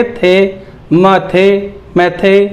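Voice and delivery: "थे" alone, then joined into "मैथे"; sounding out syllables. Shown as a demonstration. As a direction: build "मैथे" piece by piece. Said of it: "इसको कैसे पढ़ेंगे?".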